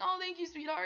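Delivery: gushy imitation. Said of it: "And he's like".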